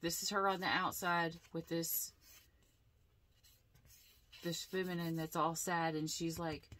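usual speaking voice

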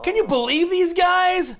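high, loud mock incredulity; hammed-up aside to the reader; showman villain aside. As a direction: call it out to the audience like a comic host. Villain freezes time, addresses reader.

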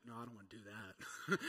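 whiny no through a laugh; mock petulant no, laughing; laughing refusal. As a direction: refuse with a giggle. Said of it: "And she's like".

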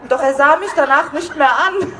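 reading the line while cracking up with laughter; barely holding back real giggles; laughing through it. Real, not acted. Reader breaking up over the novel's line, laughing. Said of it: "Das hat sie geschrieben, okay?".

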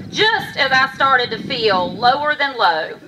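measured rhyming storytelling, pausing between lines; heartfelt poem, phrased line by line; poem recitation. Acted. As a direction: recite a personal poem to an audience. Recites own poem on stage.

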